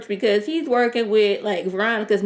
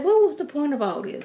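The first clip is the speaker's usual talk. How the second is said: higher, baffled question; exasperated; 6 semitones higher than usual. Retold or imitated. Reacting to the show, exasperated and higher. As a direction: throw up your hands at the plot. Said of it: "I'm like".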